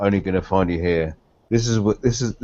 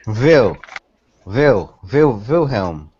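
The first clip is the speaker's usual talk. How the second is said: mock German w; 4 dB louder, much slower than usual.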